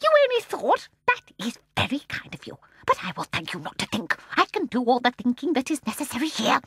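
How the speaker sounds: put-on high, scornful old woman; mock her coldly; soft terrible voice. A narrator's reading. Mrs Corrie sneering at Annie, soft terrible voice. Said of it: "in her soft, terrible voice".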